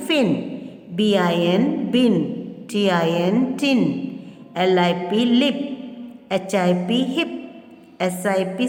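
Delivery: quick letter-by-letter, then the word; word drill. Shown as a demonstration. Teacher reading the I word list to children: spell, then say. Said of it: "Read aloud these words that have the I sound".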